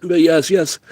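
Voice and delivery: can't catch a breath; strained, breathless words; wheezy voice. Real, not acted. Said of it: "I can't breathe straight".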